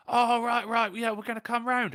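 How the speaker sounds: pissed-up mate. Retold or imitated. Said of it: "He's pissed up".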